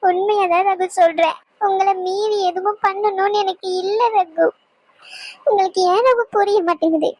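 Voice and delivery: pleading through tears to be trusted; tearful pleading. Acted. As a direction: beg him while crying. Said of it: "அழுகாத". (கண்ணீருடன் கெஞ்சுதல்)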